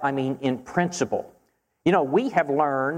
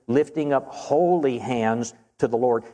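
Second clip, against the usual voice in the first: holy leaned on as the key word of the line; stress on holy. Shown as a demonstration. Preacher explaining the verse to his listeners, stressing holy. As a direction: hit holy, keep the rest even. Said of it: "the emphasis here is on the word holy".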